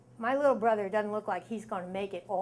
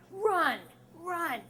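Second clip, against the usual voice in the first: high mock yell of alarm; mock scream; 7 semitones higher than usual. Big guys charging at frightened kids, retold mock scream. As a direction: imitate a scream without going full volume. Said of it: "running towards us full out screaming".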